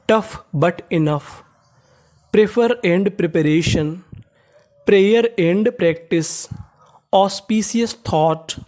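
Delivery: very slow, word by word; teacher reviewing the phrases very slowly; slow revision. Shown as a demonstration. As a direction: read each phrase out slowly for students to follow. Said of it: "सारी meaning का फिर से revision".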